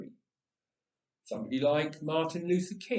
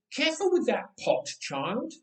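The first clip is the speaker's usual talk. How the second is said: parent's warning; 8 semitones higher than usual. Retold or imitated.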